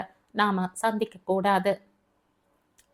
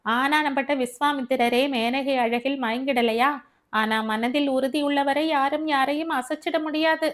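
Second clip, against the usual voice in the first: lightly voiced, higher-pitched friend; reasoning Devi; 5 semitones higher than usual. Devi argues with Abi through a legend, higher reasoning voice. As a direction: make the case with a raised pitch.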